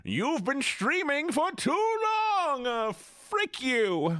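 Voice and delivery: high, slow taunting cackle voice; mocking computer voice. Streamer voicing her computer mocking her. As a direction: sneer it out like a gloating machine.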